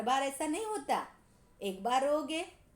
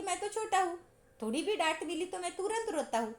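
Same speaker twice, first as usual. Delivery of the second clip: a hint of a little boy, higher; small child; 6 semitones higher than usual. Anil excuses himself to the teacher, lightly voiced little boy. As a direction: say it like a small innocent kid. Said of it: "उसका कहना क्या है कि".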